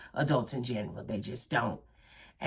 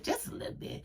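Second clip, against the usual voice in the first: whispered aside; 13 dB quieter, faster than usual. Real, not acted. Aside after her point.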